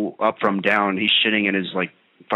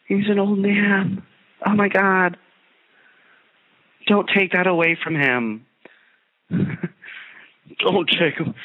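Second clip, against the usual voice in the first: much higher, slow, put-on voice; a hammed-up plea, higher and dragged out; mock pleading; 10 semitones higher, slower than usual. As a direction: beg theatrically to spare the old man. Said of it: "but, like, Jesus".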